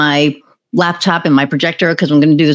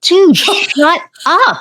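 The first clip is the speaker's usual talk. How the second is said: high, slow, pleading exasperation; exasperated look; 12 semitones higher, much slower than usual. Retold or imitated. Partner silently begging the rude colleague to stop, high and drawn out. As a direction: stretch it out like 'please stop talking'. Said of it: "his partner was looking at him like".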